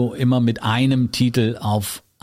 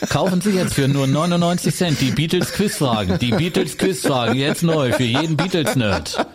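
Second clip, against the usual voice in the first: upbeat, higher ad announcer voice; chipper 1950s ad; 5 semitones higher than usual. Acted. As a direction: sell it like a cheerful radio jingle. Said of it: "Das ist das Werbejingle".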